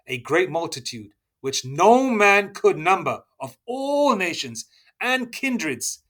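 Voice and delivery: drawn out, rising and swelling on the key words; slow, emphatic scripture reading. Acted. Preacher proclaims Revelation to his listeners, slow and swelling. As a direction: read the verse slowly as if proclaiming it.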